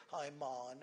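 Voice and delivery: swaying, rhythmic "Hi, man" in West Indian style; light imitation of West Indian rhythm; rhythmic West Indian lingo. Shown as a demonstration. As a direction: West Indian lilt, stretching "man" to "maan". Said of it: "any rhythmic way".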